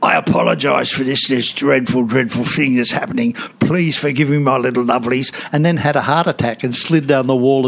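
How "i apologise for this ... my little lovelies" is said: Auntie Jack voice. Retold or imitated. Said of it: "Auntie Jack came out and said".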